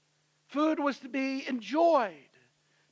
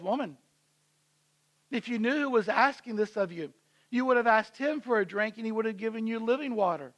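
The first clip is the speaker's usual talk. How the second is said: calm voice. Acted. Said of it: "In a calm voice".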